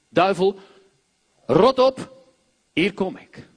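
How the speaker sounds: loud, bold rebuke; commanding the devil. Acted. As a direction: order the devil out with force. (luide, krachtige vermaning)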